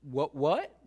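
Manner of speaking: rising double what in shock; can't believe your ears; stunned Joseph. Retold or imitated. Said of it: "You're like".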